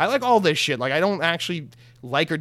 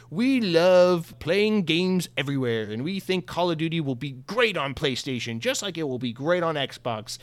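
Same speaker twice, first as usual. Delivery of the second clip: slow, drawn-out corporate spiel; mock Microsoft spokesperson. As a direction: imitate a company statement, stretching the words out. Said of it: "that's the usual Microsoft spiel".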